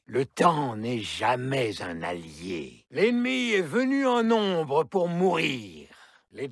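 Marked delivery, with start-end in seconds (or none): 2.9-5.9 loud, high gloating; evil shout. Acted. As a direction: shout it with cruel glee. Villain gloats in battle.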